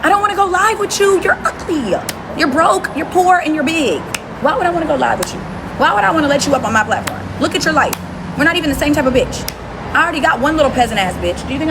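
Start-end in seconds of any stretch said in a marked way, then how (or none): 0.0-9.5 heated put-down. Real, not acted. Insulting rant.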